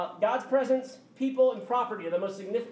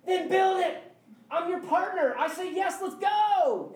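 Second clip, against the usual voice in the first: God's voice; 10 semitones higher, 5 dB louder than usual. Retold or imitated. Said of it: "He's like".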